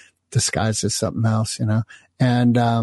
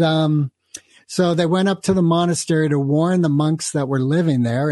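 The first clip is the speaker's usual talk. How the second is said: normal talking voice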